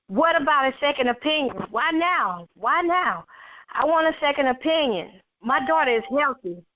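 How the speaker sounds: pleading, pitched high and quick; begging the doctor for a second opinion, fast and high; mother pleading with the doctor, voice pitched high; crying out. Acted. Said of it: "I cried".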